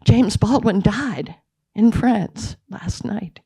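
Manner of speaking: hushed, slow whisper of shocking news; retold whisper. Colleague phoning with the death news, slow whisper. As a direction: breathe it out like stunned news. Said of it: "She said".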